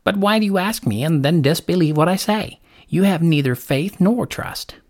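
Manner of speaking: lightly voiced, disappointed lark; reproachful lark. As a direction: scold mildly as a bird.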